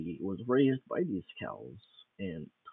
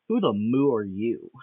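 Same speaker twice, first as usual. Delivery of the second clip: louder cow leader demanding who he is; cowman demanding; 7 dB louder than usual. Acted. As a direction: bark the question like an angry cow boss. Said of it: "he says, his English not being very well".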